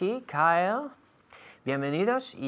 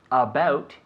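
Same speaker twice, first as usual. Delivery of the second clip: very slow "he is about sixty-five", louder at the end; teacher's slow model; slow example; 3 semitones higher, 5 dB louder, slower than usual. Shown as a demonstration. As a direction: stretch the example out. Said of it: "slow example sentence".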